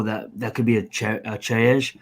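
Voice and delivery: talking while eating; mouth full. Real, not acted. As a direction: speak around a mouthful of food. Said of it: "I'm eating".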